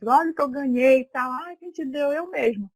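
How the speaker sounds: playful self-dialogue. Retold or imitated. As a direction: act out a little boast, question and answer. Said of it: "eu saio falando".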